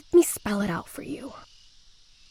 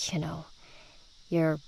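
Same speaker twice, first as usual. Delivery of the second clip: slow, hushed, knowing hint; hushed insinuation; 5 dB quieter, slower than usual. Acted. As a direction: let it hang as a hint. Insinuating teen at convent.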